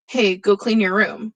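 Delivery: easy, unhurried parental request; mild casual request. Shown as a demonstration. Teacher demonstrating a gentle chore request to students, mild and casual. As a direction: ask it lightly, leaving a pause after hey. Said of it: "it's the way I'm saying it that changes the tone".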